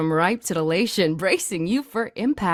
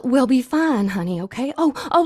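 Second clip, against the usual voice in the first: normal talking voice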